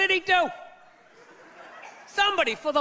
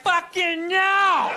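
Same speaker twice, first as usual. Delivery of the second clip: inner yell; 3 semitones higher, 3 dB louder, much slower than usual. Retold or imitated. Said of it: "inside you're like".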